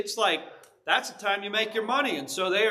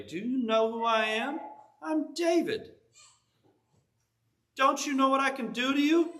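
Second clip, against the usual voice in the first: David's outrage; 3 semitones higher than usual. Retold or imitated. David retold in fury.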